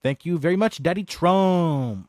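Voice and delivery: sarcastic. Real, not acted. Streamer thanking the president for budget cuts, sarcastic. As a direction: stretch the words out in sarcastic thanks.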